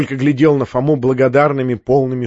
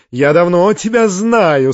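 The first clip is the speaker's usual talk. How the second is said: higher, slow, coy and rapturous; playful babble; 5 semitones higher, 4 dB louder, slower than usual. A narrator's reading. Tatyana Ivanovna teasing the fat man Bakhcheev, playfully babbling. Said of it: "с восторженной игривостью пролепетала".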